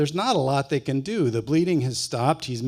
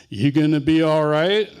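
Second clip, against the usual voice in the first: louder teasing question; brother's mock concern; 3 semitones higher, 6 dB louder than usual. Brother teases hurt Jerry with his old question. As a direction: echo Jerry's old question with a sly edge.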